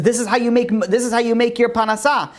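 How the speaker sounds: a rabbi coaxing the chess master to accept; rabbi's plea. Acted. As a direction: urge him gently like a kindly rabbi. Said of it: "He says".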